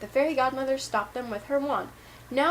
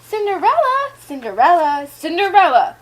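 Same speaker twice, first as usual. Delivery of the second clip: loud insistent calls, first one high; repeated calling; 5 semitones higher, 11 dB louder than usual. Acted. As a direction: yell her name over and over.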